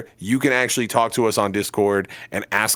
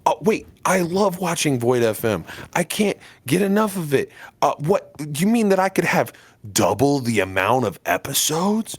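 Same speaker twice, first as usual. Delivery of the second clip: lightly voiced excited fan, higher pitch; gushing fan; 5 semitones higher than usual. Podcaster imitating a listener offered double episodes, gushing fan. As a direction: play a listener who can't believe the offer. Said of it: "is what you're saying right now".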